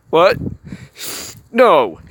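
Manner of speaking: loud flustered no; defensive shout. Acted. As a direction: snap back, caught out. Anger denies crying.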